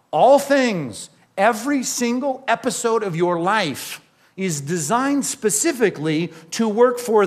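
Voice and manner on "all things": "All things" higher and louder; stress on all things. Shown as a demonstration. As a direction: hit "All things" hard. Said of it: "read that phrase again".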